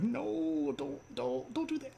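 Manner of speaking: high, stammered mock protest; playful high-voiced objection, repeating don't; impression of wife. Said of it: "And she's like".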